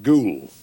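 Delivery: "ghoul" barked out loud and hard. Shown as a demonstration. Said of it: "You can't soften ghoul".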